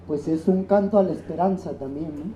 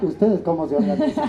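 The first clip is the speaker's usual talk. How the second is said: laughing; 2 semitones higher, 5 dB louder than usual. Real, not acted. Partner teasingly repeats question.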